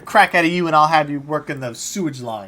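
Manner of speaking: loud, stern warning; stern threat. Acted. Officer threatens the soldier with sewage duty, loud and stern. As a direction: lay down the law.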